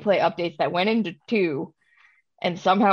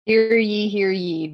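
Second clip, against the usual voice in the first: mock herald proclaiming news; town crier; 3 semitones higher, 3 dB louder than usual.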